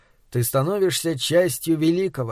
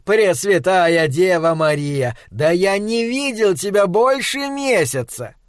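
delighted; 4 semitones higher than usual. Acted. Delighted greeting.

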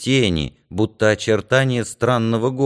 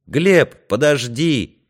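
higher, louder urgent call; 5 semitones higher, 4 dB louder, much slower than usual. A narrator's reading. Юрка calls after departing Глеб, shouting. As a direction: shout after someone to wait. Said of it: "это крикнул Юрка".

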